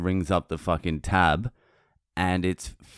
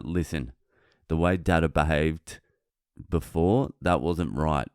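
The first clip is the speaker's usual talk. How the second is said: put-on lower, measured explanation to a child; retold parental talk; 3 semitones lower than usual. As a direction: gently own up, as a father would. Retold talk sitting son down.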